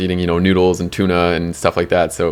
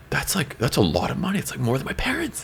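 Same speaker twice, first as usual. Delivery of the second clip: amazed; 7 semitones higher, 8 dB quieter than usual. Retold or imitated. Amazed at the money.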